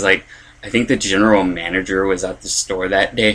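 ordinary delivery

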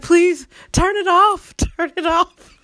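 high, slow, laughing plea; pleading through laughter. Retold or imitated. Student in class begging to stop the film, laughing. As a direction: beg them to stop while cracking up. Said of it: "I was like".

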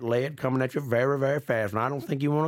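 hammed-up gunslinger warning, rising high near the end; mock menacing threat. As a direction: lean in like a cartoon sheriff making a threat. Drawling threat of a gun.

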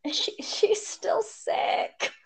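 soft slow whisper. Real, not acted. Friend whispering that the child is still sick.

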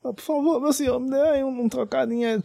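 high, whiny beggar's plea; lightly voiced pleading beggar. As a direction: beg for spare change. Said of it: "aí ele".

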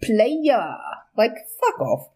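imitating his drawn-out "player"; lightly mocking, stretch out PLAYER with a falling tune; cocky player. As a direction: say it how a self-styled player would. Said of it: "I'm gonna say it how he said".

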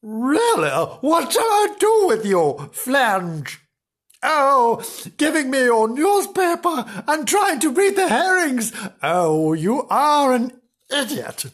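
high, loud, exasperated telling-off; hammed-up nagging wife; scolding. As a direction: berate a hopeless husband at high pitch. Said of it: "giving him a good scolding".

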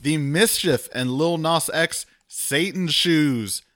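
slow, lightly put-on voice for a big reveal; slightly hammed-up product reveal, slowly. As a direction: draw out the title in a mock-dramatic voice. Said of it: "that was the voice I used for that".

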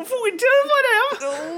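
high, loud, squawked bad Geordie; over-the-top fake Geordie; awful Geordie accent. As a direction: wail it in terrible mock Geordie. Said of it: "my Geordie accent is god awful".

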